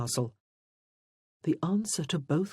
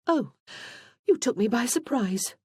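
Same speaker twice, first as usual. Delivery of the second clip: a startled gasp of surprise, voice jumping up; 8 semitones higher than usual. A narrator's reading. Christine startled by Justin, surprised. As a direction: caught off guard in the garden. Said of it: "she said, one hand over her heart".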